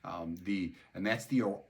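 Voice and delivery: usual speaking voice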